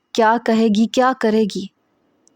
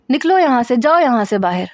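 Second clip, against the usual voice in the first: angry dismissal; 3 semitones higher than usual. Acted. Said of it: "اس وقت میں بہت غصے میں ہوں".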